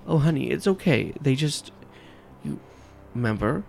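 wife calming her husband, lightly voiced; Rachel soothing. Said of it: "you hear Rachel ... pipe up".

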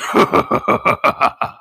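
villain cackle, breathy and rising; evil laugh. Acted. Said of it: "this voice acting".

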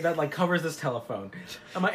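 ordinary delivery

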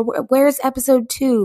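eager fan. Retold or imitated. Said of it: "other people are like".

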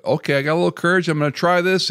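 put-on hyped-up young pastor quote; eager newbie pastor. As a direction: rush it like a nervous beginner. Imitating eager pastor starting out.

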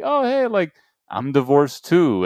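high, slow mock sad-single voice; hammed-up divorcee at a singles seminar; mock lonely divorcee. Voicing lonely federation at seminar.

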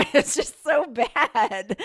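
high, loud and drawn out with laughter; real laughter into stretched-out words; laughing dismay. Real, not acted. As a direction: groan it slowly while laughing. Laughing at second mouse.

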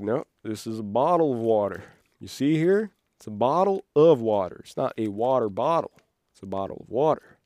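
put-on insisting in a mild Southern accent. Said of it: "now I also have a Southern accent".

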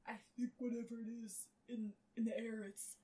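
breathy whisper, trailing off. A narrator's reading. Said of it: "he trailed, trying to focus breathing".

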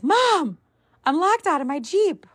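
put-on whiny teen son. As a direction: whine it like a stranded teenager. Son calls mom, locked out.

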